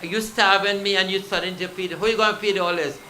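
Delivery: put-on high, loud whiny child calling for his mother; a just-woken child loudly complaining to his mom; child Krishna whining. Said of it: "He said".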